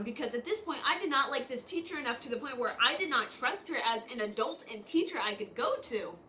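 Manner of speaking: breathless from talking fast; out of breath. Real, not acted. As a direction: run out of air mid-sentence. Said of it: "I'm out of breath".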